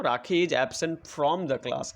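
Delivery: very slow, each word spaced out for the class; slow dictation. Shown as a demonstration. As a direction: read it out word by word as if dictating to pupils. Teacher dictating full sentence. (बहुत धीरे, शब्द-शब्द बोलकर लिखवाना)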